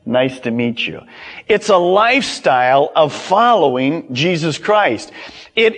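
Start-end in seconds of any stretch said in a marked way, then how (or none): 0.0-1.0 casual greeting. Pretend. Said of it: "That's a whole lot different than".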